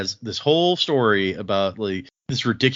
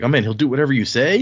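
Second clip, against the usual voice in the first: bar patrons impressed; 3 semitones higher, 5 dB louder, faster than usual. Retold or imitated. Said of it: "the people in the bar are like".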